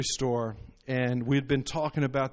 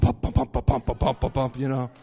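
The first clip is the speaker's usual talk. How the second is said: heartbeat sound; 3 dB louder than usual. Retold or imitated. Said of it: "he hit this spot and bump".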